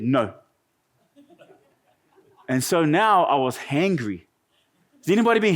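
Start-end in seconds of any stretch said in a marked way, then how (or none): 0.0-0.3 a low, flat mock-tender No; sarcastic loving mother refusal; mock loving mum. Mum refusing her four-year-old, lightly mock-caring no. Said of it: "in her loving, caring, compassionate voice".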